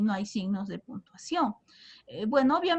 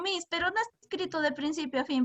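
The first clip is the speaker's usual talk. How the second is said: quick, higher mock student objection; imitating students; 5 semitones higher, 3 dB quieter, faster than usual. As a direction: play a pupil protesting to the teacher. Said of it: "Ahora, ustedes dirán". (imitando a un alumno que protesta)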